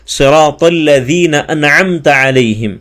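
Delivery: صراط with an emphatic sad and ta, very slow; slow, exact articulation; careful recitation. Shown as a demonstration. Teacher recites slowly to show the emphatic letters. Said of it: "تا نہیں پڑھنا ہے".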